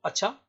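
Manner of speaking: short, rising अच्छा; surprised intonation. Shown as a demonstration. Teacher repeating the example for students, surprised short अच्छा. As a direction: clip of surprise on अच्छा, pitch going up. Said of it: "जब surprise हो".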